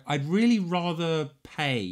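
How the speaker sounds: imitating someone uncomfortably declining an offer; reluctant polite refusal. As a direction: draw out a polite no. Brother politely declining driver's offer.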